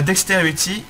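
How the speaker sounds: English word in a thick French accent; French speaker's attempt at English. Real, not acted. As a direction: say dexterity as a French speaker would. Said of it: "Avec un magnifique accent anglais".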